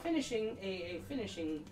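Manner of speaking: a hint of a stern schoolmistress; lightly voiced stern instructor. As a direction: announce the class as a strict dance mistress, lightly played.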